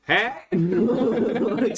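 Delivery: short, loud call-out; sudden pretend yell; mock yell. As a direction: holler to get the staff's attention. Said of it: "start yelling".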